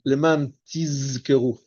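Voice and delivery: tizkeru drawn slowly on a sibilant; wrong reading with sin. Shown as a demonstration. Teacher warning students about a misread zayin, wrong reading. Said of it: "ça doit pas être tizkeru avec un sin".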